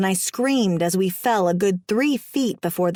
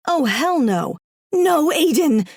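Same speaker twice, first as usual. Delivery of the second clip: rising panicked shout of his name; panicked cry; 6 semitones higher, 3 dB louder, slower than usual. Acted. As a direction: cry out in alarm as he charges. Heroine pleads as husband charges.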